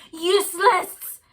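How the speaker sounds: a black dog's slow, loud howl; howled word. Acted. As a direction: howl the word out, drawn out and huge. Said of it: "a howl that stayed and became a word".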